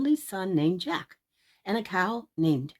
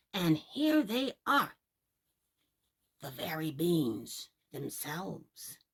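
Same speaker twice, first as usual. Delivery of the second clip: put-on slow, low and softer old man; sly old man; 3 semitones lower, 3 dB quieter, slower than usual. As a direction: reveal the beans slowly. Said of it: "said the man".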